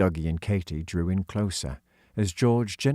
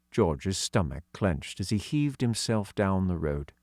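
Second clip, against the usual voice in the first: plain reading voice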